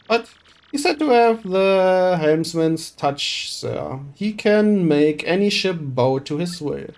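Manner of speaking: a rough dockhand calling out to the boss; gruff crewman. Acted. Crewman calling to Flavio with a solution, rough. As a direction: call out, eager to help.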